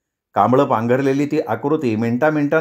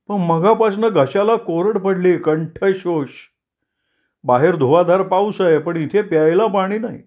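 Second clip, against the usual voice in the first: higher, fussy thirsty clerk; Deshpande's voice; 4 semitones higher than usual. Acted. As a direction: whine about the thirst. (उंच, कुरकुरणारा देशपांडे)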